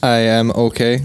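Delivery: flat robot voice. Real, not acted. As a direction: say it like a tired robot. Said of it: "You legit sounded like a robot there".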